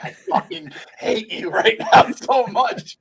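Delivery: laughing fake yell at the TV; mock furious yell; mock rage. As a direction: shout it through a laugh. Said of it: "and I'm just like".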